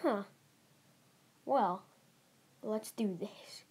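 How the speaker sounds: slow breathy whisper, voice all but gone; hushed whisper. Retold or imitated. Classmates agreeing to jump down, spoken in a slow hushed whisper. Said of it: "And everyone's just like".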